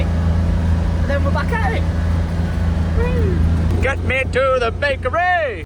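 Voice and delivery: high, loud and exuberant; excited. Real, not acted. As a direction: shout it out, full of joy. Exuberant recovery after illness.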